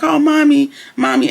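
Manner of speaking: imitated child's cry. Retold daughter recognising her mom, high imitated cry.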